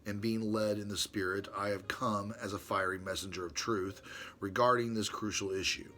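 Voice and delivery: reading his letter to Brother Ron aloud, formally. Acted. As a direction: read it like a solemn treatise.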